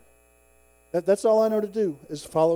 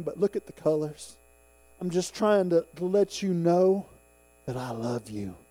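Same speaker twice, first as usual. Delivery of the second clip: gentle reassurance, as God. Acted. God showing sunset colors to a grumpy man, gentle reassurance.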